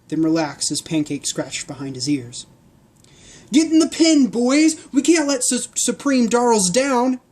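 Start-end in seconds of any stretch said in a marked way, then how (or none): 3.5-7.2 very high, loud commander's order; bellowed. Acted. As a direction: bark orders at the guards. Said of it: "the commander bellowed".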